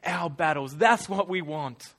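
loud, emphatic people's demand; insistent demand. Acted. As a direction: declare it forcefully for the whole nation. Acting out Israel demanding a king.

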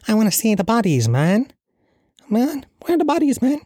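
very high mock Cork accent. Protester demanding to see bodies, hammed-up Cork accent. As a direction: push the Cork lilt up into a squeaky protest. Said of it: "I'll do a Cork accent".

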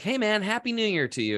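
high, upbeat hey man; cheerful greeting. Retold or imitated. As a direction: hail a passer-by with a grin. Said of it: "I was like".

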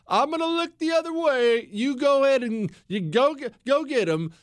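sly president. Retold or imitated. President voiced, wink nudge.

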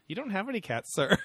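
high, squeaky mock reply; hammed-up prim voice; high put-on voice.

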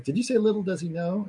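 high-pitched, sudden disbelief; intrigued retold question. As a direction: act out someone seizing on a phrase. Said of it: "And he goes".

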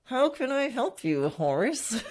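tight, forced mock-polite question; mock patience barely hiding frustration; through clenched teeth. Shown as a demonstration. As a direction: grind the kind words out through gritted teeth. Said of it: "saying those words through clenched teeth".

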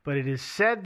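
SAID pointedly emphasized; stress on SAID. Real, not acted. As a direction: lean on the word said as a disclaimer. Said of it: "I'm gonna emphasize the word said".

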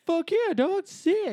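high pumped hype bro. Retold or imitated. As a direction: cheer like an easy hype bro. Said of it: "People are like".

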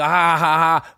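retold spoken-out "ha ha ha"; deliberate, low-pitched mock laugh. Comic retelling Charles Barkley's jab to listeners, mock laugh.

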